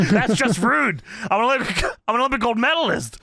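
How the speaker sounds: retold huffy complaint; pissed-off wrestler. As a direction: protest like an offended champion, lightly hammed up. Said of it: "Kurt is getting pissed".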